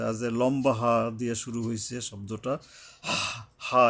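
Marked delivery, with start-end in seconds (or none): 3.7-3.8 হা with a rasping rush of air from the throat; throaty ha. Shown as a demonstration. Teacher demonstrates the long ha, হা from the throat. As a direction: push হা out through a tightened throat. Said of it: "কিছুটা গলায় শোষ শব্দ".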